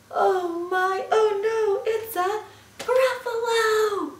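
high, loud storybook panic; alarmed mouse. Acted. Mouse sees the Gruffalo is real, alarmed. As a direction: cry out in hammed-up alarm.

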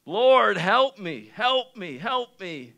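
loud, urgent plea that eases off; pleading. Acted. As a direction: cry out for help, acting out a desperate woman. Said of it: "pleading with him again".

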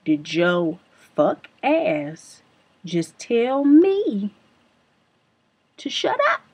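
each word dragged out slowly, the last words leaping up in pitch; slow menacing repeat. Retold or imitated. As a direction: spell it out like a threat, then squeak the end. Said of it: "I said".

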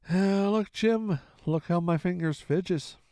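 a slow, begging plea; a mild plea to make Jim look at the shaking hands; pleading. Acted. The old captain begs Jim to look at his fingers, slow and pleading. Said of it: "he continued in a pleading tone".

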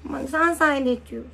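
put-on lisping three-year-old voice; baby talk. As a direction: play a whiny toddler. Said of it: "三歳だから".

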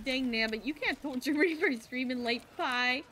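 playful put-on Southern accent; lightly hammed-up Southern voice. Shown as a demonstration. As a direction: scold in a mock Southern accent. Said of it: "Okay, I'll do a Southern accent".

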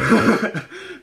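sudden high, loud laugh at himself; embarrassed laugh. Real, not acted. Vlogger laughing at his own awful accent. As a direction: burst out laughing at your own bad accent. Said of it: "that was an awful accent".

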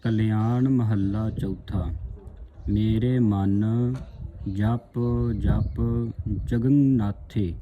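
slow, drawn-out scripture reading; recitation. Shown as a demonstration. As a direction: read each word slowly and devoutly.

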